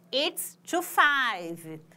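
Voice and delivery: slow model phrase; slow demo. Shown as a demonstration. Teacher modeling British time for students, slow. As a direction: say it slowly and clearly. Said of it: "no inglês britânico".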